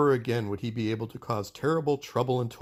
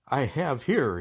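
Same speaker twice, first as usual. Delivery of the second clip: mild shout; 3 semitones higher, slower than usual. Acted. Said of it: "he shouted".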